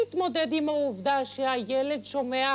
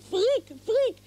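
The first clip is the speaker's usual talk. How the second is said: mocking youth slang. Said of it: "איך החבר'ה אומרים".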